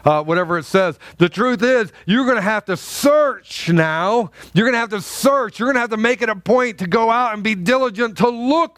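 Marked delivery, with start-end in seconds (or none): 1.2-6.8 rising, urging sermon delivery; preacher urging the congregation to search; preaching. Real, not acted. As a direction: press the point home to the flock. Preaching at full force.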